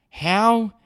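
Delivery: high, loud incredulous how; outraged shout. Real, not acted. Host ranting about crowded polling booth, loud outraged shout. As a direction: blurt it out in disbelief.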